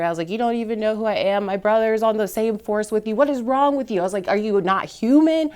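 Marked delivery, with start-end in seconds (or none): 0.3-4.0 higher, rising into an angry retold outburst; reliving a furious protest at the arresting officer; livid retort. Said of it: "I was livid". 4.3-5.5 higher, rising into an angry retold outburst; reliving a furious protest at the arresting officer; livid retort. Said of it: "I was livid".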